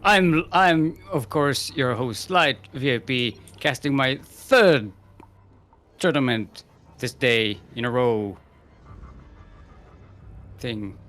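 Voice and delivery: lightly put-on hyped caster impression; Light impersonation. Co-caster greeting the host, a light impersonation of another caster. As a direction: punch the greeting, then settle into a mock host spiel. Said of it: "that was my Light impersonation".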